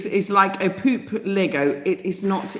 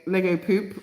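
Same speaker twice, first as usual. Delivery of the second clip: laughing. Real, not acted. Joking about Pope Leo's name.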